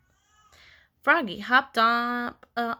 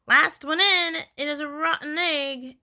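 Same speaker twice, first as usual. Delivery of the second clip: high, taunting yell; 5 semitones higher than usual. A narrator's reading. Max racing the others in, high yell. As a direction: call it out like a playground dare. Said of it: "Max yelled".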